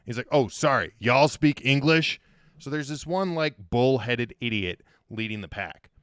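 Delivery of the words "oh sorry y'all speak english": loud, slow American drawl; imitating a dim American tourist's accent; mock American accent. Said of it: "They've got an accent".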